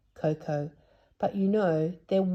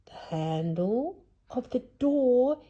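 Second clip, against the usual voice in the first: yelled; 8 semitones higher, slower than usual. Acted. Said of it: "yelled Moonface".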